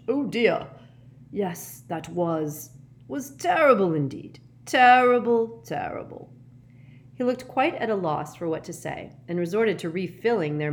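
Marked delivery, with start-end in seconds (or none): 0.1-6.3 high, halting dismay with loud swells; falter, then exclaim and tail away; flustered old professor. A narrator's reading. Professor hears of parents' deaths, flustered.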